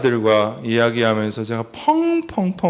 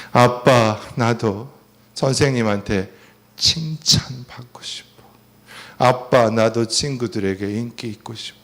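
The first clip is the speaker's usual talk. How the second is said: tearful plea; 3 semitones lower than usual. Retold or imitated. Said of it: "눈물을 쏟으면서".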